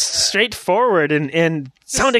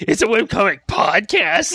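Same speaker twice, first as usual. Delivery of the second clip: lightly imitated odd creature intonation; Skeksis; 2 semitones higher than usual. Teasing co-host about his promo, mild mock creature intonation. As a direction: mimic a weird, funny promo read. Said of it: "was a Skeksis".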